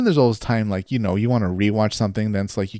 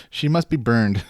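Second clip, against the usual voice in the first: slow, laughing mock zealot; hammed-up pronouncement while laughing; mock witch hunter.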